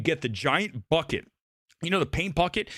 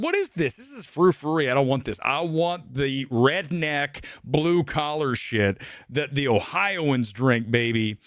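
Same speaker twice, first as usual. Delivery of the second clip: mock disgust; slower than usual. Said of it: "you're like".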